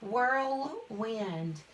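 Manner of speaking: "Whirlwind" slowly, as "whirl", then "wind"; "Whirlwind" stretched into two clear words; split compound. Shown as a demonstration. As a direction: separate both halves of "Whirlwind". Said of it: "The word is whirlwind".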